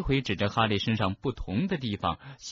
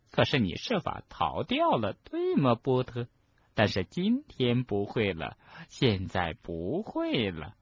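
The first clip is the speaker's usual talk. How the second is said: menacing professor; 3 semitones higher than usual. Acted. Umbridge threatens Harry.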